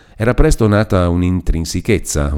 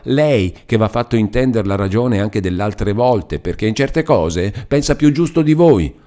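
put-on gentle, earnest young woman's plea, a touch higher; Lucia pleading; 4 semitones higher than usual. Lucia gently pleads with Renzo about her vow.

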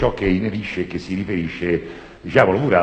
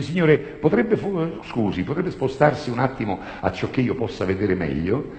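polite Italian request; 4 semitones higher than usual. Shown as a demonstration. Comedian demos the polite Italian sentence. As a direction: ask very courteously. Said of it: "in romano".

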